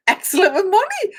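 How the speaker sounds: breaking into real laughter mid-phrase; high, giggling read you can't hold back; laughing. Real, not acted. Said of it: "I don't know why I'm laughing".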